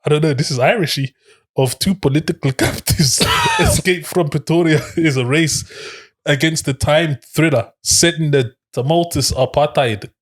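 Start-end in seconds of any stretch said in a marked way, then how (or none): 1.6-10.1 attempted South African accent. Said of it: "there was words that were South African".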